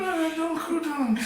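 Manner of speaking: words pushed past packed gauze; gauze in mouth. Real, not acted. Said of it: "I feel like I have to talk this way 'cause there's gauze in my mouth".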